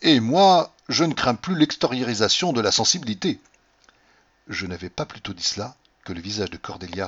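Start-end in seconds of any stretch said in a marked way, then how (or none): 0.0-3.4 a loud, jaunty, laughing boast. Acted. Husband teasing his wife, jaunty and loud. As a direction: toss it off jauntily, pleased with yourself. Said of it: "en riant d'une façon tout à fait gaillarde".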